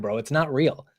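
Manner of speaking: ordinary delivery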